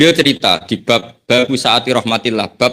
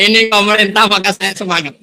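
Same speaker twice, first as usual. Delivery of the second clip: laughing; 8 semitones higher than usual. Acted. Sinner's eager reply, laughing.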